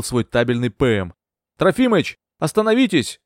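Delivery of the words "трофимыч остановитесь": высокий окрик вдогонку лодке; позвать громко и высоко; shout. A narrator's reading. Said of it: "крикнула я". (крикнуть беглецу остановиться)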